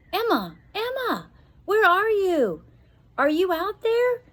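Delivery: high, loud calling across a garden; a worried father calling for his daughter. Acted. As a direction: call for her into the dark.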